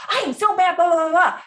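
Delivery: high, loud, mildly hammed-up fury; mock angry rant. Upset person venting at the listener, mock angry. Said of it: "person that you're talking to is like".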